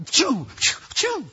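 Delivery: high, quick "choo" bursts; imitated whooshing knocks. Shown as a demonstration. Preacher showing hope tossed by Wall Street, mimicked whooshes. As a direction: make little sounds of being batted about.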